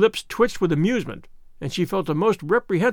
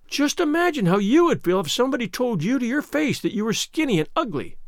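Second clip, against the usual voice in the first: higher-pitched plea, understated tears; tearful pleading; 6 semitones higher than usual. A narrator's reading. Anne asks Marilla to imagine the insult, mildly tearful pleading. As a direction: plead with a touch of hurt. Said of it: "pleaded Anne tearfully".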